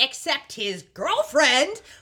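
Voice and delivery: high, loud shout. Retelling a scene where a character bursts in: imitating Waverly shouting. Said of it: "Waverly shouts".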